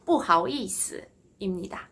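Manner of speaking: 不好意思 with 思 short and toneless; 不好意思, last syllable tapped off lightly; staccato neutral tone. Shown as a demonstration. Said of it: "스타카토처럼 그냥 딱 콕 찍어서 읽어주시면 돼요".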